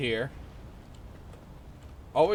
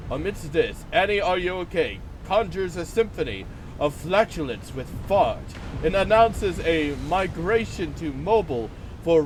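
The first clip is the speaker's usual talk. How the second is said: nature documentary. Pretend. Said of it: "Let's observe chat in its natural habitat".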